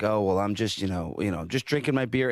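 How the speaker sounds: a low, mumbled imitation of the masked guy; mocking the creepy guy. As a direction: lightly voice the creepy guy as he brushes you off. Creepy guy voiced in story.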